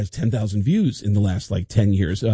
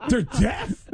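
high, laughing "They're deaf"; breaking into laughter on "They're deaf"; laughing correction; 10 semitones higher than usual. Retold or imitated. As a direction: giggle "They're deaf" through the word deaf. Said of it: "I go".

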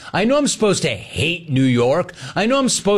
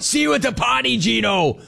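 higher, sing-song taunt; teasing; 9 semitones higher than usual. Pretend. Host to Gino, teasing him about the party. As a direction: needle him playfully.

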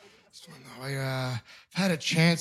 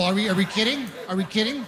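normal talking voice

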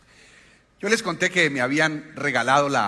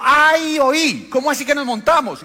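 high laughing Antioquian exclaim; cracking up at the story, pitched up; laughing in disbelief; 9 semitones higher, 6 dB louder than usual. Retold or imitated. Man laughing at the pastor, high laughing disbelief. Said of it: "empezó a reírse y dijo".

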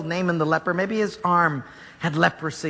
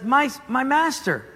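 pleading servant; 5 semitones higher than usual. Acted. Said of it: "his servant says".

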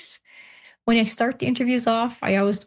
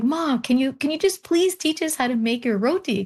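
higher, coaxing plea to grandma; pleading granddaughter; 5 semitones higher than usual. Retold or imitated. Granddaughters asking grandma to teach roti, pleading. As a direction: beg sweetly for the recipe. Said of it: "we're like".

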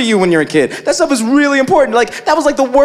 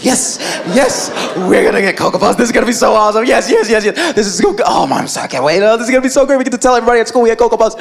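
put-on giddy kids; much faster than usual. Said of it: "skipping around, like".

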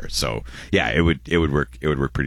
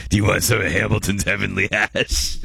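drug dealer voice; 4 semitones higher than usual. Retold or imitated. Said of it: "your Ryan voice".

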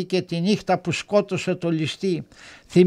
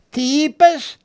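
sudden high, loud disbelief; shocked question; 8 semitones higher, 4 dB louder, slower than usual. A narrator's reading. Sally reacting to Steve's news, high and loud in shock. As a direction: gasp it out, stunned.

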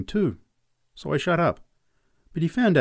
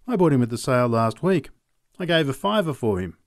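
Charlie Robbins; 2 semitones higher, 3 dB louder than usual. Acted. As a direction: plead your way out of a fight, pitched up. Robbins sells the horse.

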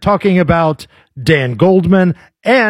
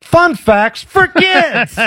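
mock kids-show host; 9 semitones higher, much slower than usual. Sarcastic aside.

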